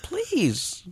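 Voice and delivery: high, slow Russian lady threatening; mock Russian accent. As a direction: draw it out in a hammed-up Russian accent. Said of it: "It's very Russian".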